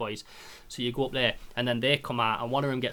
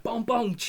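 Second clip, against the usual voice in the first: imitated gunshots; 11 semitones higher than usual. Imitating shootout gunfire.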